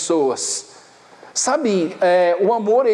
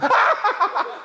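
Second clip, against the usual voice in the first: short laugh up high; 12 semitones higher than usual. Real, not acted. After telling the backwards joke, a high laugh. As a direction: crack up at the joke.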